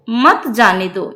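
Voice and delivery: slow "मत जाने दो", set apart with मत leading; stress on मत. Shown as a demonstration. Teacher explaining "do not let him go", weight on मत. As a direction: lean on मत as the start of a new phrase. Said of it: "यानी जाने नहीं दो".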